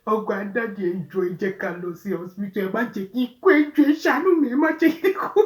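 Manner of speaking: high, loud, desperate Yoruba pleading; desperate begging. Retold or imitated. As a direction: beg not to be left to die. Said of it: "she was like".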